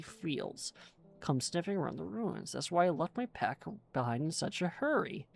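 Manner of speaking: lightly voiced old dwarf explorer, chatty; a hint of a fussy old dwarf rambling on; lightly voiced dwarf NPC reading his quest; forgetful old dwarf.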